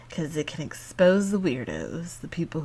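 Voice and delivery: conspiratorial whisper. Real, not acted. Whispered aside.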